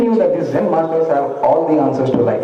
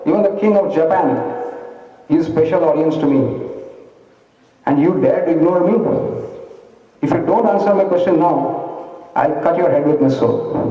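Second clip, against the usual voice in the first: raised, proud samurai voice threatening the monk; raging samurai; 3 semitones higher than usual. Acted. Samurai warrior threatens silent monk, raging and raised. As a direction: play the samurai boasting and threatening in rage. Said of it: "completely fuming with rage".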